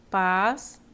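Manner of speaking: "passagem" partido em sílabas, com pausa; separação silábica. Shown as a demonstration. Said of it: "Então, vai ficar". (dividindo devagar, sílaba por sílaba)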